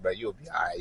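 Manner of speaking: low, hushed reassurance; retold comforting murmur; encouraging. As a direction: softly console a crying buddy. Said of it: "he tryna encourage".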